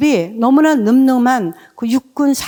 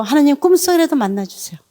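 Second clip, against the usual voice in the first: earnest plea; 5 semitones higher than usual. Retold or imitated. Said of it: "정말 전심으로 기도했습니다".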